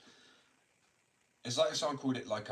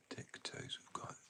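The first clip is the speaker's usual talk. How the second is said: soft murmur to dog; 13 dB quieter, slower than usual. Real, not acted. Talking softly to her dog.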